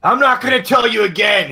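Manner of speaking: loud, high furious yell; yelling cop. Acted. Malloy yelling at the old man, loud and furious. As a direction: scream the warning at him. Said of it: "he yells".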